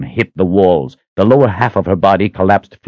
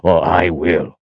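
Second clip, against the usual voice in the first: strained, forced through clenched teeth; through gritted teeth; slower than usual. Acted. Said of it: "he managed through gritted teeth".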